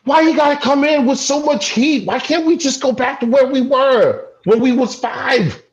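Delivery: high, wounded plea; upset, high-pitched protest; plaintive pleading. Acted. Brother pleads with heated brother.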